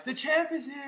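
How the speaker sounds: big deep voice. Pretend. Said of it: "Big deep voice for me".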